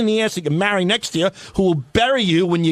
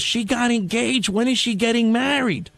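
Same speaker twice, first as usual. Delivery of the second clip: lightly voiced old lady, higher, drawn-out questions; old Jewish lady; 5 semitones higher than usual. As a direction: imitate an old lady prying for gossip. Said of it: "the old Jewish lady goes".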